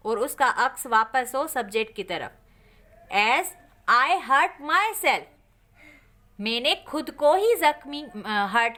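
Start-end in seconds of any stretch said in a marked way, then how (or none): 3.1-5.2 slow dictation. Shown as a demonstration. Dictates the example sentence.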